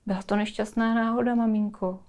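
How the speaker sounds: softly voiced apologetic child; small, quiet plea to mum; timid apology. Child wants to apologise to mother. (tichá, nesmělá omluva)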